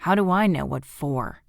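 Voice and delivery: loud, gruff snarl; snarling husband. Acted. Husband snarling back at his wife, loud and gruff. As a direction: snap back at her irritably. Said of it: "Andrews snarled".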